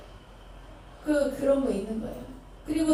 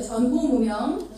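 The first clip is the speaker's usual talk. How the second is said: 전후 무명 said slowly and clearly for repeating; slow model phrase; slower than usual. Shown as a demonstration. Teacher gives the congregation a phrase to repeat, slow and clear. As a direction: spell out 전후 무명 deliberately, syllable by syllable. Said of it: "따라해보세요".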